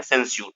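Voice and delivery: सेंस्योर said lightly, the स्योर soft and unstressed; light pronunciation demo. Shown as a demonstration. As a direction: model सेंस्योर gently with a light स्योर ending. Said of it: "सेंस्योर ऐसे पढ़ना है". (सेंस्योर हल्के से उच्चारण)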